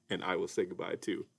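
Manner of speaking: soft whispered goodbye. Real, not acted. Host whispers goodbye to the kids beside the sleeping puppet. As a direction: whisper so the puppet stays asleep.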